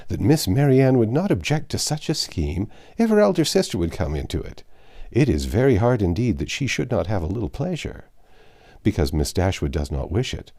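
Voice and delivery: hearty gentleman plotting a jaunt; Sir John voice. Acted.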